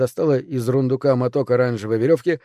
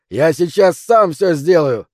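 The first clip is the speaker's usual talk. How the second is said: louder, slow and emphatic roar; 4 semitones higher, 5 dB louder, slower than usual. A narrator's reading. Old ex-cop refusing any help, roaring slowly. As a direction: roar it out word by word. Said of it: "взревел бывший коп".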